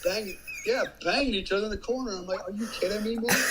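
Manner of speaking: can't believe it, cracking up; incredulous laughing outburst; laughing disbelief. Real, not acted.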